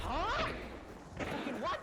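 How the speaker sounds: high incredulous outburst; surprised. Real, not acted. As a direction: react in sudden disbelief. Sudden death in game.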